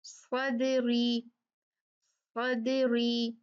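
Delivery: सदरी drawn out very slowly, dal said light; light dal demo. Shown as a demonstration. Teacher sounding out a light dal for the class, very slow. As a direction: stretch सदरी syllable by syllable. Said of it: "light होगा".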